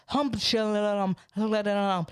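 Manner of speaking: babbled imitation of a minister's tongues; mock speaking in tongues. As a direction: lightly imitate praying in tongues. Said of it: "she starts speaking in tongues".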